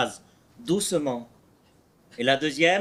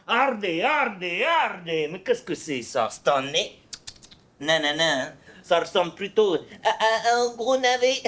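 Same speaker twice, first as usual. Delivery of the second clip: put-on country accent. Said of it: "un ton de la campagne".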